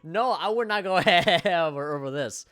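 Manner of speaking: high, slow put-on voice with a laugh; mock protest. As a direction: play it as a hammed-up denial. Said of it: "I'm like".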